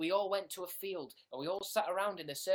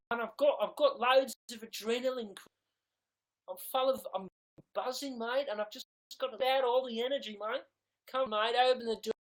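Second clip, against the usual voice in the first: put-on higher, louder drunk pleading at the door; drunk Troye Sivan; 6 semitones higher, 6 dB louder than usual. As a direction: beg to be let in, buzzing and drunk. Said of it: "And Troye Sivan, you know, knocking".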